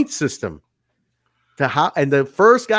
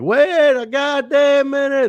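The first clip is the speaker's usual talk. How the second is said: much higher, slow indignant wrestler voice; retelling the wrestler barging in, higher and slower; mock Jeff Jarrett; 11 semitones higher than usual.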